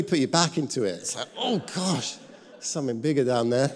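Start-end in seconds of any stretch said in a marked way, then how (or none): 1.4-3.7 higher, startled gasp of disgust; hammed-up alarm at the drain; mock alarm. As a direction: play it like the drain keeps getting worse. Acted shock at the drain.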